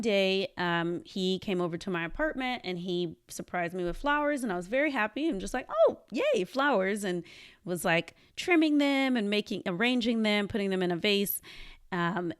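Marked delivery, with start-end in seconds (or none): 5.7-7.0 much higher, giddy little yay; delighted squeal. Retold or imitated. Boyfriend brings her flowers, she squeals with delight.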